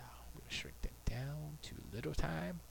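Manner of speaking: whispered to himself; whispered aside while working. Real, not acted. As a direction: murmur it under the breath.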